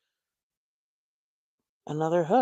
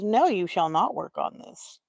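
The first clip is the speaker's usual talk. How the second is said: solemn universe voice; 7 dB louder than usual. Retold or imitated. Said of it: "The universe says".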